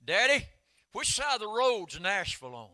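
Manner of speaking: lightly voiced sister asking innocently; little sister's question. Sister asking Daddy on the road trip, lightly voiced. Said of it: "Judy said".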